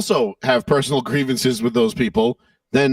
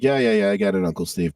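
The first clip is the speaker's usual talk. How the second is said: bored, dismissive yeah-yeah; eye-rolling; 2 semitones higher than usual. Retold or imitated. Teen brushing off his uncle, eye-rolling. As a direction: roll your eyes at the advice. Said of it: "I'd kinda roll my eyes like".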